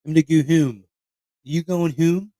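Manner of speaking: exaggerated Delco vowels on home; mock Delco accent. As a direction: parody a Delco local. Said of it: "Nobody fucking talks like that here".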